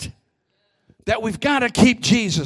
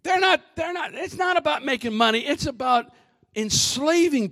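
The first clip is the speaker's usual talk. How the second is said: much higher, fast, urgent; high excited cry; 5 semitones higher, 3 dB quieter than usual. Real, not acted. Preacher shouting in high pitch.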